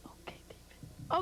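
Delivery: slow breathy whisper aside. Acted. Wrestler gives in to the interviewer, whispered. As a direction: hush it to the host, slowly.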